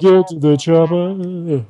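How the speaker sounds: deliberately bad action-star impression; slow, stretched-out catchphrase; half-hearted movie-hero imitation; Arnold Schwarzenegger. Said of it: "my impression of a person who doesn't know".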